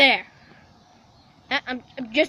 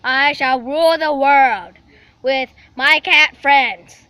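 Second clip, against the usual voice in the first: slow, deliberate would-be world ruler; cartoon villain cat; slower than usual. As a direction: announce an evil plan, drawing out the key words.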